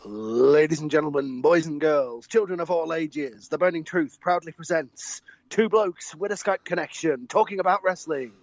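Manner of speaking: announcing like a circus ringmaster; grand showman introduction. Acted. Circus-style show introduction.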